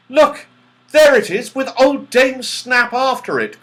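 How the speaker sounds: high, loud urgent call; excited cry. A narrator's reading. Joe spotting the clock chased by Dame Snap, crying out. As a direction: point it out eagerly to the others. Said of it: "cried Joe".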